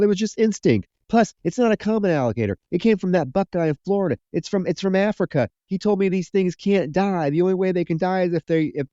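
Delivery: high, hurried mock pleading; begging. Judd begging Roy not to shoot the alligator, mock pleading. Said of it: "Judd is out there begging him".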